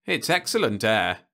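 talking through a bite of apple; chewing while speaking; mouth full. Acted. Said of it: "through a full mouth".

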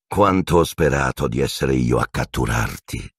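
low, gloating menace; hissed. Acted. Teacher to captured enemy, low hissed gloating. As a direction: relish the capture, pitched low. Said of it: "sibilò Piton a Black".

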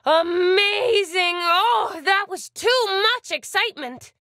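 drawn-out, high exclamation that then eases; gush, then catch yourself from too much thrill; overwhelmed excitement. Acted. Game character overwhelmed by excitement.

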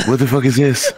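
high, laughing what-the-heck; laughing disbelief. Retold or imitated. Husband seeing another rescue dog, laughing shock. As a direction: blurt it out through a laugh.

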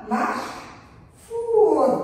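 very slow, drawn-out محفوظ; slow model reading. Shown as a demonstration. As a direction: stretch each syllable of محفوظ. Models reading a word slowly. (قراءة بطيئة ممدودة)

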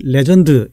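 "레전드" with a full vowel on the final 드; wrong Korean pronunciation. Shown as a demonstration. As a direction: misdemonstrate legend in even Korean syllables, "레전드". 한국 사람들이 레전드 이렇게.

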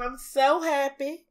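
slow, drawn-out Southern twang; lingering Southern delivery; southern accent. Real, not acted. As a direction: let the Southern accent slip out, stretching the words. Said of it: "I sound so southern".

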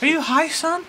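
high squeaky helium voice. Real, not acted. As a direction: chipmunk voice teasing. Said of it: "You were the one that got high off helium".

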